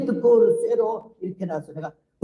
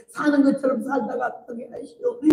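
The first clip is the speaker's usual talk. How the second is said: Jeolla dialect plea, higher, with 사는 lifted and the end rising; crying Jeolla dialect prayer; 5 semitones higher than usual. Retold or imitated. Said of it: "전라도 사투리로 기도를 하더라고".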